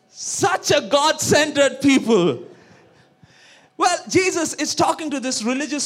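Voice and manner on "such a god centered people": sarcastic. Acted. Teasing congregation sarcastically.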